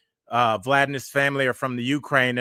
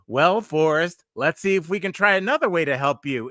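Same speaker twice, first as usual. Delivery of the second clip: weird robotic; 4 semitones higher than usual. Retold or imitated. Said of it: "that weird robotic".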